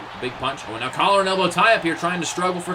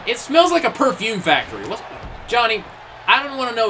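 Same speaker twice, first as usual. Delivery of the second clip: amused outburst; 5 semitones higher than usual. Real, not acted. Commentator teasing the wrestler about his hair, amused outburst. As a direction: raise the voice in mock disgust.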